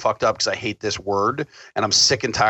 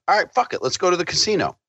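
high, reckless go-along; much higher, carefree agreement; mock eager yes; 7 semitones higher, faster than usual. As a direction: toss it off like why not. Retold going along with friends.

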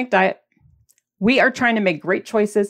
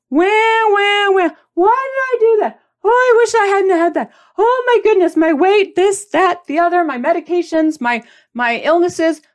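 high, loud whining imitation of a moaning friend; mock whiny complaining; 9 semitones higher, 4 dB louder than usual. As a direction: whine it like a self-pitying friend.

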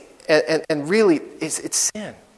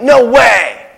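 louder, higher thrilled disbelief; excited no way; 4 semitones higher, 4 dB louder than usual. Pretend. Disciples overjoyed at Jesus, in excited disbelief. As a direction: blurt it out in delight. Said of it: "you're so excited that you're like".

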